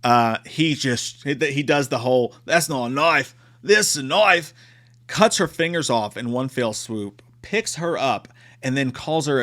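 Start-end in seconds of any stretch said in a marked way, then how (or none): 2.5-4.5 hammed-up Australian movie quote; bad Australian accent. Killer brandishing his knife, badly faked Australian accent. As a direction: attempt a rough Australian accent. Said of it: "I'm a terrible accent or doer guy".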